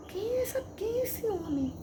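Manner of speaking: high-pitched, bewildered questioning; puzzled and unsettled, pitched high; perturbed inner question. Retold or imitated. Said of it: "perturbada, assim, me perturbou".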